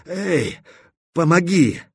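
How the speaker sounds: a strained call, rising high; calling for help. Acted. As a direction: call out to her for help from below. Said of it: "позвал он".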